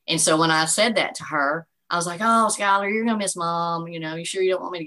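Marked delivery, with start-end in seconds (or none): 2.2-4.8 teasing mom. Retold or imitated. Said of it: "trying to embarrass your kid".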